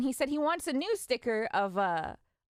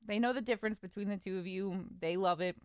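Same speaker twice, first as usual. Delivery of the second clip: gentle reassurance; 4 semitones lower, 4 dB quieter than usual. Retold or imitated. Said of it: "I reassure her".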